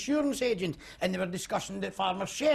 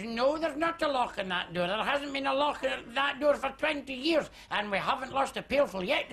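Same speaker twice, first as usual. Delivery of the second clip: higher, laughing through it; laughing punchline; 6 semitones higher than usual. Acted. Hostess answering the guest, laughing. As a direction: deliver the punchline chuckling.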